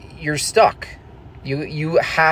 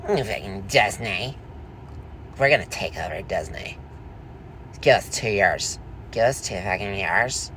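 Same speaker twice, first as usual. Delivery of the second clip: tag; 3 semitones lower, 6 dB quieter than usual. Acted. Plays the threatening boyfriend ranting.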